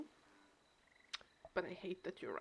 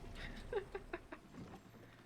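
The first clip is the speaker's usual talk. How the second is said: short string of soft chuckles; laugh; 12 semitones higher, 6 dB quieter than usual. Real, not acted. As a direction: let out a quiet, higher laugh. Laughs after mock reproach.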